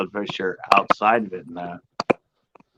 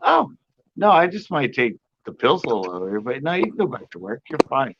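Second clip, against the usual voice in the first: retold nurse waving it off; breezy dismissal; 3 semitones higher than usual. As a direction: brush off the worry lightly. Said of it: "She goes".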